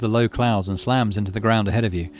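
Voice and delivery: measured, dramatic story narration; game narration. A narrator's reading. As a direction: read the looming encounter aloud like an adventure tale. Reads game text aloud.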